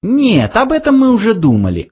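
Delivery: high, fast mouse reply. A narrator's reading. Frankie answers Arthur, high fast mouse voice. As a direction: rattle it off. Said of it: "ответил Фрэнки".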